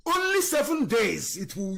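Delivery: shouting the promise; emphatic shout. Real, not acted. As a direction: drive the promise home at full voice.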